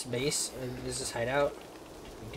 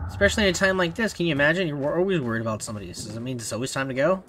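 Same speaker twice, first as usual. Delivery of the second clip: indignant; 3 semitones higher, 4 dB louder, much faster than usual. Real, not acted. Indignant rant at game's saying.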